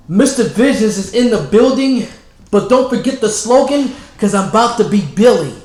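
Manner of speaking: self-hype. Real, not acted. Host hyping himself.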